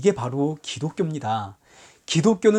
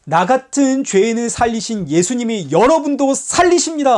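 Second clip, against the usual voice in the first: loud, high proclamation; preacher calling out salvation; proclaiming cry; 5 semitones higher, 5 dB louder than usual. Retold or imitated. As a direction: cry out the good news to everyone. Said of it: "하고 외치는 곳".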